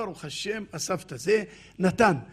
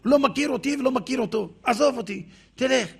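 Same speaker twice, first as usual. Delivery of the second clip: acted angry dismissal, raised pitch; angry yelling; 4 semitones higher than usual. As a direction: rail at an unwanted visitor, moderately heated. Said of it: "הוא צעק, כעס".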